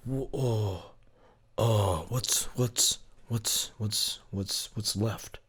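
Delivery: strained, breathless under effort; struggling mid-lift, winded; straining. Real, not acted. Straining under heavy weight lifting.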